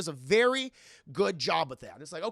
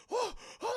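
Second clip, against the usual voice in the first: high, soft mock gasps; little acted cries of shock; 5 dB quieter than usual. Anna falls back in the tub, shocked gasps.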